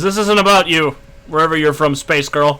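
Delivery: a lightly voiced giant dismissing the space girl; dismissive villain. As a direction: wave the girl away with contempt. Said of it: "He looks up at you and says".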